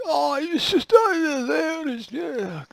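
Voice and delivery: high, hammed-up Scottish accent; a quick jokey Scottish impression; mock Scottish accent. Showing how people mock Scots, a hammed-up Scottish accent. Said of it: "People mock Scottish accents all the time".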